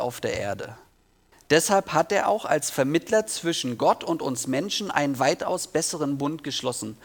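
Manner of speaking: measured Bible reading to listeners; scripture reading. A narrator's reading. Preacher reads Hebrews to the congregation, measured scripture reading. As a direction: read the passage aloud in clear, deliberate phrases.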